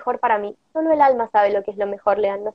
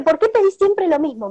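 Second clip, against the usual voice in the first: a hint of a higher little-angel voice; 5 semitones higher than usual. Angel asking her why she always asks the same thing, lightly voiced. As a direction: lightly play a curious angel. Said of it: "me decía el angelito".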